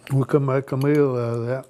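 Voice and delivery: talking with a mouth full of salad; words round a bite of food. Real, not acted. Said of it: "If I can quit talking with my mouth full".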